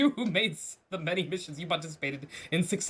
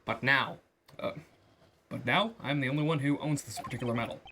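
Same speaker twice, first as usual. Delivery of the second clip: lower, settled froggy puppet voice; Kermit voice; 5 semitones lower than usual. Acted. Ambassador mocks the lawyer's claim, lowered Kermit voice. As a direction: lean into the low Kermit impression. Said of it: "Deep Kermit voice".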